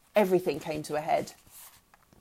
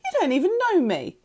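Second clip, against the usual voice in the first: high, raised accusing cry; scream; 11 semitones higher, 4 dB louder than usual. A narrator's reading. Girl rejecting mother's love, screaming. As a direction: scream it back, pitch soaring. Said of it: "I screamed".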